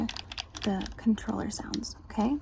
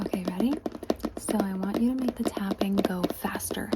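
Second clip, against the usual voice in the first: ASMR whisper. Acted. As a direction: whisper the instructions gently.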